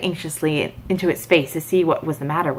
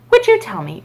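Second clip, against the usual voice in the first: higher, lightly voiced Alice; timid Alice; 11 semitones higher, 5 dB louder than usual. A narrator's reading. Alice asking the cat, lightly voiced and timid. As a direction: ask it shyly, up high. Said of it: "she began rather timidly".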